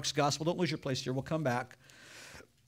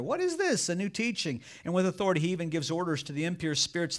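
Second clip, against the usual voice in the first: amazed crowd. Acted. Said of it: "they asked each other".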